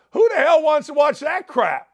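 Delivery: high, loud exasperated rant; exasperated outburst. Real, not acted. Host fed up with the Denver Broncos, loud and high rant. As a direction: let it burst out, fed up and loud.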